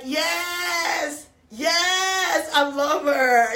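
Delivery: an imitated American fan, thrilled to bits; excited squeal. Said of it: "So excited".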